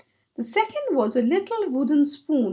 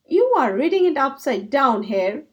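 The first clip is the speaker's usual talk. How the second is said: impatient; 4 dB louder than usual. Acted. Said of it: "cried Squirrel impatiently".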